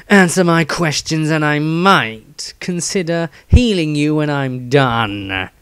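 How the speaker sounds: slow, menacing surgeon; slow, cold threat to a thief; Dieter threatening. Acted. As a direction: draw it out slowly as a threat. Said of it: "Dieter sighed ... pointed threateningly".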